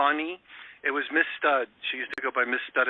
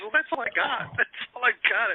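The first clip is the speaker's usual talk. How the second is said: high, laughing reply; 11 semitones higher than usual. Retold or imitated. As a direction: chuckle through the words. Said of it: "she says".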